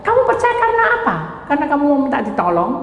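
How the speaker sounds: high and fast searching questions; a rapid, high-pitched divine interrogation; voice of God probing. Retold or imitated. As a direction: fire the questions quickly, way up high.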